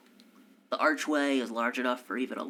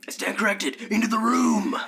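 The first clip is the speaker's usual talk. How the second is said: louder, higher shout of alarm; urgent call; 10 semitones higher, 7 dB louder than usual. Acted. Game master shouting the party into the room, urgent. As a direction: yell it like the enemy is already here.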